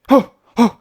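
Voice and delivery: sharp punching grunts; loud effort grunts. Retold or imitated. Mimicking Fury throwing his left hook, loud grunts.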